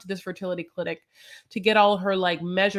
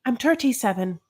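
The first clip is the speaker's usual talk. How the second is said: put-on a failed try at a foreign accent that slides into Irish; 5 semitones higher than usual. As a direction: say "I'm thirty-seven" with a mild Irish lilt. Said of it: "No, that's Irish".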